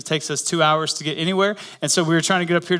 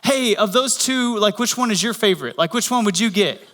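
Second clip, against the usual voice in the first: wife calling over; 4 semitones higher than usual. Retold or imitated. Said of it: "leans over again and asks the lady".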